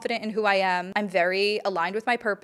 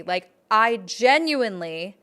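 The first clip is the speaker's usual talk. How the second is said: ordinary talk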